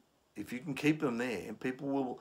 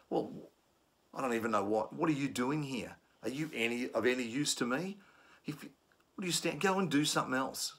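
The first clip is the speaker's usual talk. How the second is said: higher-pitched contemptuous put-down; insulting; 4 semitones higher than usual. Shown as a demonstration. Trainer acting a passenger insulting staff with contempt. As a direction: belittle them with scorn. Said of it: "venture into insults and abuse".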